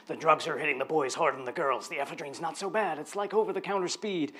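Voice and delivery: put-on light Welsh accent, read out as a quote; a lilting Welsh accent on the quote. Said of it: "I don't know why I did a Welsh accent there".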